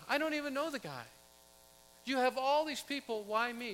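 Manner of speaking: high, pleading protest of a reluctant man; a panicked bystander begging not to be chosen; protesting Simon. Acted. Preacher voicing Simon refusing the cross, high and pleading.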